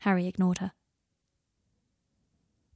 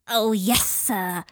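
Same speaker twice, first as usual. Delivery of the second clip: louder, keen elf servant; eager house-elf; 4 dB louder, much slower than usual. Acted. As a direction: answer like an overeager elf. Kreacher eagerly accepting order.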